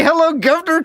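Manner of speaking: high, hammed-up Cockney hello; mock Cockney greeting. Asking if the woman said it, mock Cockney. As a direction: chirp it like a cartoon Cockney. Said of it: "did she say".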